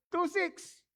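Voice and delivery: high, incredulous repeat of the price; laughing disbelief at the clinic bill; amused disbelief. Real, not acted. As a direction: repeat it as if still shocked.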